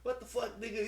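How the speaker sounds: very high, squeaky mock alien disbelief; country alien dude. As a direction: squeal it out like a shocked space hick. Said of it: "a little country ass, uh, alien dude".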